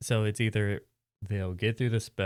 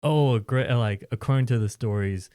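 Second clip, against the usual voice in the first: dramatic lore telling; 4 dB louder than usual. Pretend. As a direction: recount the legend with gusto. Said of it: "It's like".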